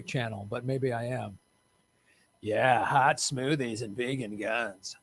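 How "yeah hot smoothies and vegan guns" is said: sultry cam voice. Pretend.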